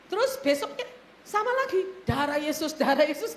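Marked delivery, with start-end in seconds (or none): 2.1-3.4 mimicked praying. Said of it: "gitu, Saudara".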